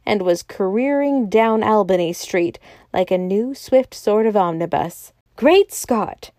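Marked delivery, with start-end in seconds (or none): 5.4-6.3 high exclamation; astonished cry. A narrator's reading. Doctor Bull watching the elephant escape, crying out. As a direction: exclaim in amazement, pitched up. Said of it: "cried Bull".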